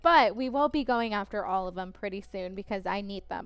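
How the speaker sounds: talking between sips of tea; words around a sip of tea; while sipping a drink. Real, not acted. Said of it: "I'm trying to drink my tea right now".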